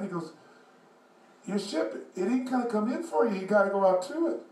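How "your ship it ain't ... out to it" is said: lightly voiced old man, pitched up; a hint of an old-timer explaining. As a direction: put on a slightly high old man's voice. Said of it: "this old guy, probably seventy years old".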